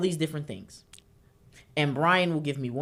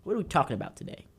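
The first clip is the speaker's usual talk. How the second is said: mimicking Brian; 6 semitones higher, 8 dB louder than usual. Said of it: "He goes".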